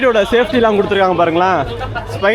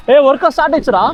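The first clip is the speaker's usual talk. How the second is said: excited; 5 semitones higher than usual. Real, not acted. Rides restarting, calling friends.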